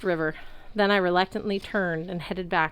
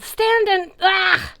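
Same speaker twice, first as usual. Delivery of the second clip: high yell breaking into a cry; order cut off by a cry; 13 semitones higher, 7 dB louder, much slower than usual. A narrator's reading. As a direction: yell cut short as a giant sits on you. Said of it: "The last part was because".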